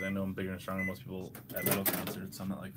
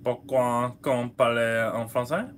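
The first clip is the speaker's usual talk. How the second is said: clumsy French; 4 semitones higher, 8 dB louder, slower than usual. Shown as a demonstration. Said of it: "Thank you for the French".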